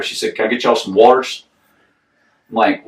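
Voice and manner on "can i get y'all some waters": lightly put-on Southern waitress accent; a touch of Southern server; imitated Southern waitress. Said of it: "I didn't understand what she was saying".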